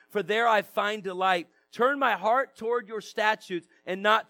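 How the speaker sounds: measured public Bible reading; scripture reading. Real, not acted. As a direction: read the psalm out to a congregation, phrase by phrase. Reads psalm aloud to congregation.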